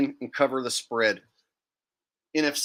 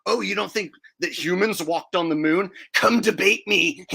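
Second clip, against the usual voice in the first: higher, whiny mock challenge; mocking smug troll; 4 semitones higher, 3 dB louder than usual. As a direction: parody a smug flat-earther. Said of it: "That's the type of people".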